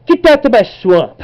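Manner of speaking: high, loud hammed-up ogre voice; Shrek impression. Kid mimicking Shrek for viewers, hammed-up ogre voice. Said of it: "I'll do a Shrek impersonation".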